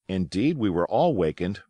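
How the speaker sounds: plain reading voice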